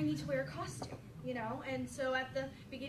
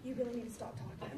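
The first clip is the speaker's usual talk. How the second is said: low fed-up aside; 5 semitones lower, 6 dB quieter, faster than usual. Retold or imitated. Fed-up storyteller to kid.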